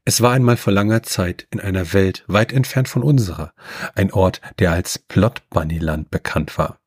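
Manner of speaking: measured storybook reading; story narration. A narrator's reading. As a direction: read it like a fairy tale. Reads machine-written fairy tale.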